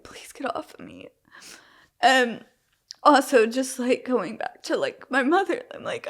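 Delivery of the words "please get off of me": breathless whispered plea, barely audible. Retold or imitated. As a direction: whisper it like begging to be left alone. Retold plea to stop touching.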